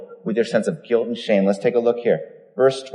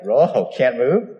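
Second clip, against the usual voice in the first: mock surprise; slower than usual. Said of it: "I'd be like".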